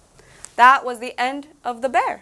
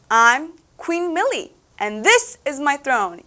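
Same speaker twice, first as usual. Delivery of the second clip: boasting; slower than usual. Acted. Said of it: "she boasted".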